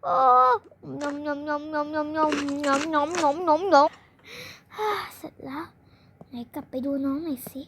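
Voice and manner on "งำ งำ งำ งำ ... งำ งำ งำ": slow, exaggerated munching; chomping noises. Greedily eating burger. (เสียงเคี้ยวงำๆ ช้าๆ)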